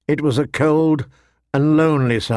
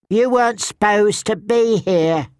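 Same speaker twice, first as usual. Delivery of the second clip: sour mutter; 7 semitones higher than usual. Acted. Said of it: "he muttered sourly".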